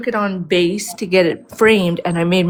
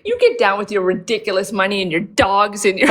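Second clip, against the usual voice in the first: laughing through a mock angry yell. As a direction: shout it while cracking up. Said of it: "She was like".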